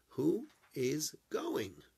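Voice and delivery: slow, breathy whisper of the question. Acted. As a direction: whisper it slowly, like a secret. Translating Pharaoh's question.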